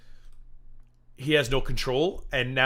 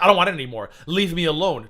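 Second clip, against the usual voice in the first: mock whiny Hussey; 5 semitones higher, 10 dB louder than usual. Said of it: "And he's like".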